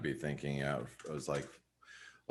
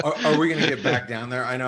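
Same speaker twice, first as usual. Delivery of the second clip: excited; 8 semitones higher, 9 dB louder, faster than usual. Real, not acted. Laughing, excited rhetorical question.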